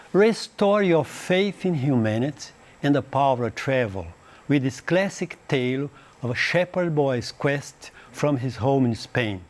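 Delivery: slow, careful read-aloud of English; slow classroom reading. Shown as a demonstration. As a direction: read it out slowly for students. Reads English blurb aloud slowly.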